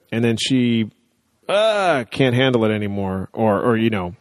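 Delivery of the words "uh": high-pitched mock groan; exasperated groan. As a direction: groan as if imitating someone at breaking point. Acting out her being overwhelmed.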